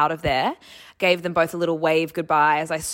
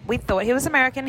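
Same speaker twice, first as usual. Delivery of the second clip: rushed, pitched-up retake; fast, higher repeat; 6 semitones higher, faster than usual. Shown as a demonstration. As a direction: blurt it again, faster and higher.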